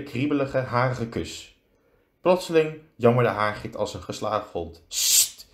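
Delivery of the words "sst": stemloos gesist sst; sissend. A narrator's reading. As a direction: sis om stilte. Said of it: "siste professor Anderling". (scherp fluisterend tot stilte manen)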